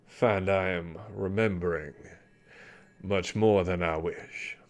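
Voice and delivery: put-on slow, heavy old sailor voice; an old captain haunted by memories; weary old sea dog. GM voices the Commodore.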